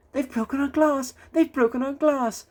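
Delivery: high, wailing lament; mild sobbing lament. A narrator's reading. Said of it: "sobbed the coaches".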